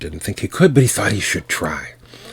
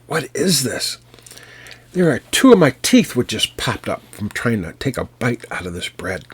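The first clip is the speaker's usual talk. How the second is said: higher, louder pained outcry; giant in pain; 5 semitones higher, 3 dB louder than usual. Acted. Giant biting iron bread, crying out in pain. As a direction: yelp it like a giant who lost teeth. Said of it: "he let out a scream".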